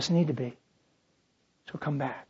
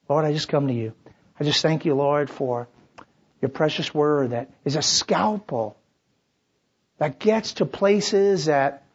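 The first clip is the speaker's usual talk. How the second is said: closing prayer. Acted.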